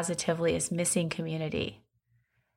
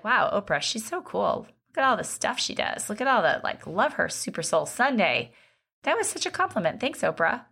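gushing fan; 3 semitones higher than usual. Pretend. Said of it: "I'd be like".

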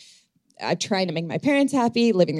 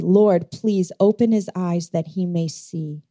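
prayer; slower than usual. Acted. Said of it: "Elisha prayed for his servant and said".

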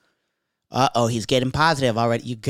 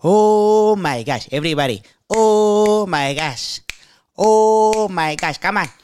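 long-held, high "oh" as a hype man; club hype man; 7 semitones higher, 4 dB louder, slower than usual. Retold or imitated. Club owner hyping the dance floor, high drawn-out hype man voice. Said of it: "He was the hype man with that voice".

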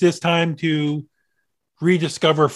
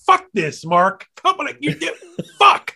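exasperated cursing; 8 semitones higher than usual. Retold or imitated. Exasperated quote at opponent.

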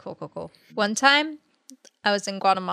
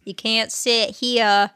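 lightly voiced slow child; Forrest Gump bus child; slower than usual. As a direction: drawl it slowly, like a kid on the bus. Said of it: "my child on the Forrest Gump bus voice".

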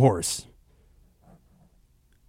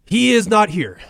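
high, loud, flat refusal; host telling a caller the guest is gone; curt snap; 9 semitones higher, 5 dB louder than usual. Acted. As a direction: shut the caller down fast.

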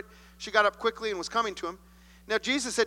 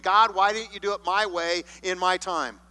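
mock tantrum at God; 4 dB louder than usual. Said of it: "throwing a temper tantrum".

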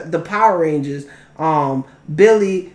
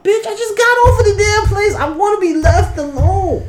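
mock snapping; 12 semitones higher than usual. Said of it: "his girl comes home like".

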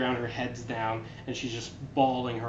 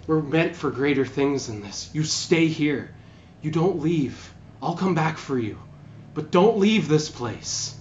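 rising, louder and slower to the last don't; urgent command; 3 semitones higher, 5 dB louder, slower than usual. Acted. Tigrin ordering the wounded player to stay, building to a slow loud plea. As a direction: insist they stay put, voice building.

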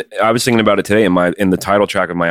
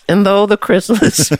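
high, lofty documentary narrator voice; nature documentary; 13 semitones higher than usual. Retold or imitated. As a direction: narrate it grandly.

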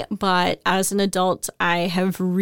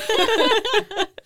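bright burst of giggling; high giggle. Real, not acted. Guest laughing off being called a collab pro with a high giggle.

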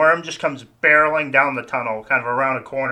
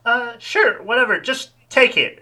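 bored clerk; 10 semitones higher than usual. Acted.

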